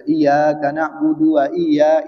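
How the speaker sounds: "Iyyaka" slowly with a single, undoubled y; no tasdid. Shown as a demonstration. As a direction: recite "Iyyaka" without doubling the y. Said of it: "nggak dibaca tasdid contohnya". ("Iyyaka" dibaca pelan tanpa tasdid)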